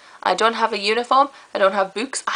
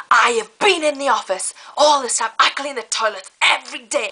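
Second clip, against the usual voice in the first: mocking coworker; 4 semitones higher than usual. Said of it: "She was like".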